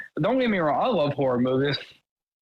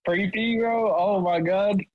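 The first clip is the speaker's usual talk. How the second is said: higher-pitched mock scared plea; mock fright; 4 semitones higher, slower than usual. Creeped-out friend begs Mark to hold him, mock fright. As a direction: play-act being creeped out, pitched up.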